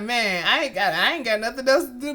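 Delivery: fast, careless shrug of a line; casual carefree. Retold or imitated. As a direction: toss it off like it's no big deal. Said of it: "saying it like".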